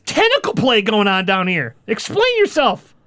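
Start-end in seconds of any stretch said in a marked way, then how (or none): 1.9-2.9 stern demand. Acted. Daughter confronting father.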